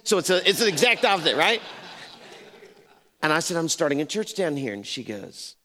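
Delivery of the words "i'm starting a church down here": pitched up from the usual voice; repeated statement. Retold or imitated. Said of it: "What did you say".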